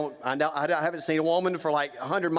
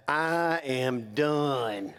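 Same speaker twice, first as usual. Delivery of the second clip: very slow, drawn-out resignation; lightly mocking a fed-up man; mock weary vow; 3 semitones lower than usual. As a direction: spell out each word like a tired quitter. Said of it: "You know what most of you have done?".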